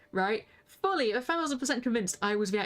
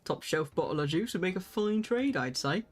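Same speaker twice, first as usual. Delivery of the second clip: Hildebrand voice; 4 semitones lower than usual. Acted. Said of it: "do Hildebrand's voice like that".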